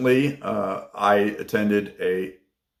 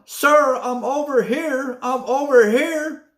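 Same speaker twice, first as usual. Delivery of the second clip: imitated yell across the room, much higher and louder; retold lady yelling; 5 dB louder, slower than usual. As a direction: call out like the lady waving him over. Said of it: "the lady starts yelling".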